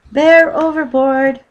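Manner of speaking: put-on slow, high boyish shout; excited boy yelling an alarm; cry out. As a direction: sound the alarm loudly. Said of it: "cried Jonathan".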